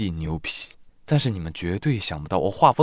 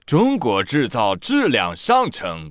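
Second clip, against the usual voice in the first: praising quote; 3 semitones higher, slower than usual. Retold or imitated. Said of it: "他称赞道".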